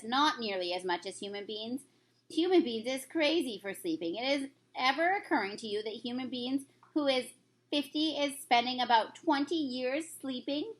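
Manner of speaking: a lightly voiced kindly giant; friendly old giant, lightly put on; BFG voice. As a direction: read the giant's lines with gentle storybook character.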